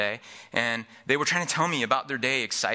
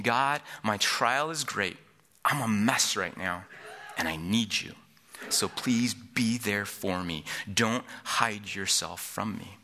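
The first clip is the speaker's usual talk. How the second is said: slow, sinking lower as it goes; weary plea; 4 semitones lower, slower than usual. Acted. David asking God to be there, weary plea.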